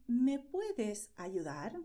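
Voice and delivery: slow, clear request for help; slow model question. Shown as a demonstration. Teacher modelling a request for help, slowly. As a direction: ask slowly so learners catch each word. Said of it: "by asking".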